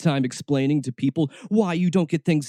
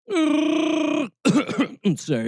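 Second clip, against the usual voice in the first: laughing while coughing; laughing apology; 12 semitones higher, much slower than usual. Real, not acted.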